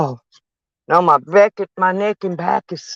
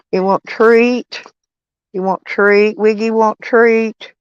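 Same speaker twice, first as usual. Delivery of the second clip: pet talk; 5 semitones higher, slower than usual. Real, not acted. Offering the dog a treat.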